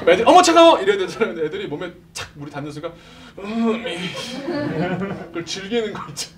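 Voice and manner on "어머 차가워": high, loud squeal; mock shriek. Kids hit by a cold hose, mock shrieking.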